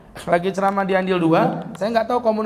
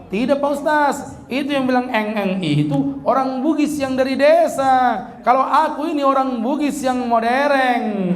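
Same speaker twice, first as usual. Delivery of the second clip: higher, proud Bugis driver boasting about being modern; the driver, higher-pitched, proudly brushing off the village Bugis; 5 semitones higher than usual. Retold or imitated. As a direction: play the driver insisting he's the modern kind. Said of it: "yang nyupir orang Bugis".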